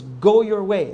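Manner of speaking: emphatic, authoritative command. Retold or imitated. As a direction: hand it down as an order. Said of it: "That's the command".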